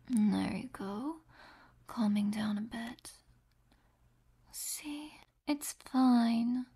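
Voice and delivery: hushed, tender whisper with a possessive edge. Acted. Soft possessive comfort whispers.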